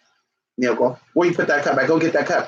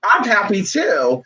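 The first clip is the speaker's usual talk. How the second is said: imitating a child; 3 semitones higher, slower than usual. Child gushing over happy mama, a light mock kid voice. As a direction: coo like a small kid praising mama. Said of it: "and they say".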